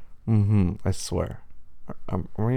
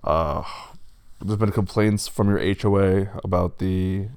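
louder wolf voice, apologetic official; county official wolf; 6 dB louder than usual. Acted. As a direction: deliver the complaint loudly as a county official.

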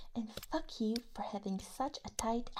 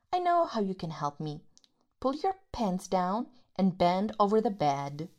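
contemptuous anger; 3 semitones higher, 6 dB louder than usual. Acted. Berating the useless partner, loud and scornful. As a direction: belittle them loudly.

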